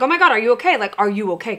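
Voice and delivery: put-on sudden worried shout at the wobbling kid; alarmed mom. Mom to wobbling daughter on bike, alarmed. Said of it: "I'm like".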